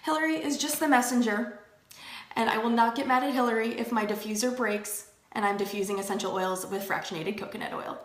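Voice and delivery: a mock mantra, breaking into a laugh; teasing affirmation for viewers; recited affirmation. Shown as a demonstration. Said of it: "repeat after me".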